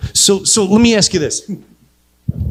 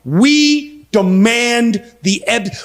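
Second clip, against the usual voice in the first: Bill and Hillary Clinton; 6 semitones higher, much slower than usual. Acted. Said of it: "Bill Clinton and Hillary Clinton going".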